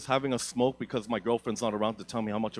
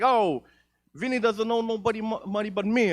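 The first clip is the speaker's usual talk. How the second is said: put-on old Italian nonna; 10 semitones higher, 4 dB louder than usual.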